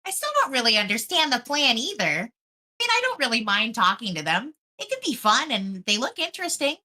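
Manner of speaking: put-on valley girl. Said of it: "like, Valley Girl?".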